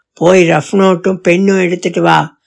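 lightly voiced strict father; stern command. Father sends daughter for notebook, low firm command. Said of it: "அதட்டலாக கட்டளை வந்தது".

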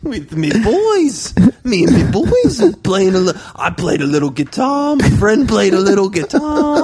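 badly held British accent; British slipping into hillbilly. Cohost telling guitar yarn, British turning hillbilly. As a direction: let British slide into hillbilly twang. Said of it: "slowly transitioning into a hillbilly".

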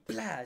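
high, sudden "plá" of sheet metal; sharp mouth-made door slam; imitated slamming door. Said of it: "esa que cuesta abrir".

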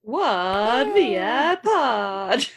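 slow drawn-out announcer call; fighting game announcer. Shown as a demonstration. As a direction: stretch it like an arena announcer. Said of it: "Nomad, you gotta say it".

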